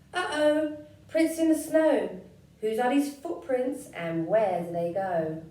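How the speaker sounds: high, loud gasp of alarm; startled shout at claw marks; surprised child. Acted. Gruffalo's child spots claw marks, high and loud. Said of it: "mouse finds prints".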